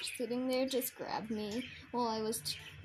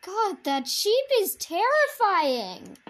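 terrified shout; 7 semitones higher, 11 dB louder than usual. Real, not acted. Horror game reaction.

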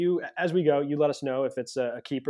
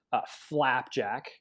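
mock British accent; much slower than usual. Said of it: "I'm throwing an accent".

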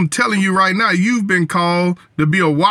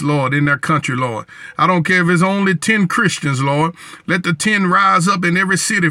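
fervent prayer. Acted. Prays over Israel.

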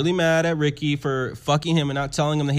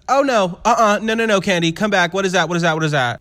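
indignant mother; 4 semitones higher, faster than usual. Acted. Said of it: "And Mother says".

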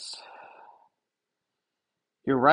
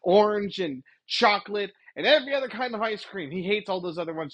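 mock outraged news hype, pitched up; going ballistic; 5 semitones higher than usual. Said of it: "the news would go ballistic and say".

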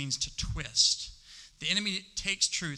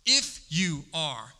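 slow taunt; 4 dB louder, much slower than usual. Acted. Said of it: "The enemy said".

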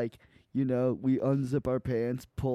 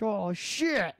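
mock surprise; 7 semitones higher than usual. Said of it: "he's like".

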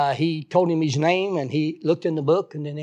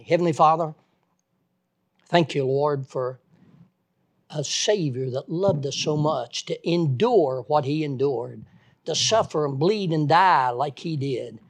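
earnest prayer addressed to God, loud on Heavenly Father; closing prayer; 3 dB louder than usual. Acted. The preacher thanks God aloud for the Savior, praying. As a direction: pray it sincerely to close the sermon.

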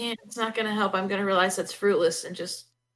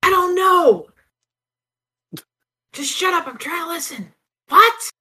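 irritated shout-whisper; 7 semitones higher, 8 dB louder than usual. Acted. Shushing companion in dungeon.

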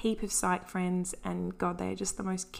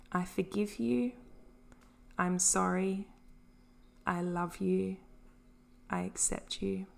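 gentle affirmation; 4 dB quieter than usual. Shown as a demonstration. Host models self-compassion mantra for listeners, gently. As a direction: offer each phrase tenderly to yourself.

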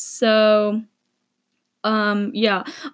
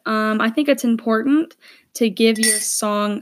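talking between sips of tea; words around a sip of tea; while sipping a drink. Real, not acted. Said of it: "sorry, I'm drinking".

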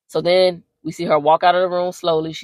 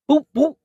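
imitated thuds; 9 semitones higher than usual. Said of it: "all we hear is".

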